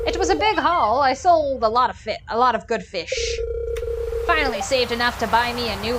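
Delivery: vague old sea-dog accent, lightly put on; Willy sailor accent. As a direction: play the old fisherman with a loose sailor accent. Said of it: "I don't know what accent I'm apparently doing".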